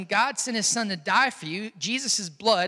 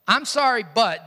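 insincere apology; 4 dB louder than usual. Shown as a demonstration. Preacher shows a wrong apology, insincere sorry. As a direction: say I'M SORRY, then swing into BUT. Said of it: "doesn't go together".

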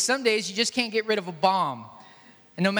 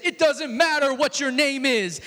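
a touch of louder wrestler bravado; The Rock; 3 semitones higher, 4 dB louder than usual. Retold or imitated. Preacher voicing Paul as The Rock, mild wrestler swagger. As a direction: brush them off like a wrestling heel. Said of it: "put the voice of The Rock".

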